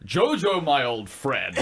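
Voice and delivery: put-on light Peter Sellers-style German accent; mild German accent. Cohost requests it, a light German accent. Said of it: "do your German accent again".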